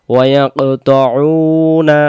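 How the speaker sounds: slow drawn-out chant; Quran recitation. Shown as a demonstration. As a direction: stretch the word melodically. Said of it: "teacher chants the verse". (ধীর সুরে টেনে পড়া)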